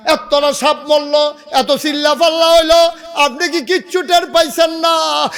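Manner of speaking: high, insistent scolding; wife's reproach. Acted. Wife asks husband if he noticed nothing, high reproach.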